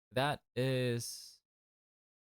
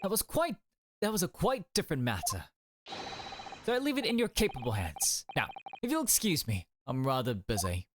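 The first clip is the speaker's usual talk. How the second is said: game character; 2 semitones higher, faster than usual. Acted.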